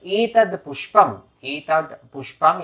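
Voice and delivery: measured demonstration of an offering formula; mantra recitation. Shown as a demonstration. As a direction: say the Sanskrit deliberately for learners to copy. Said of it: "अब पुष्प को आपको कहना है".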